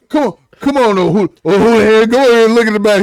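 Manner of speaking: hammed-up impatient film quote; mock exasperation. Acting out a map argument, loudly exasperated.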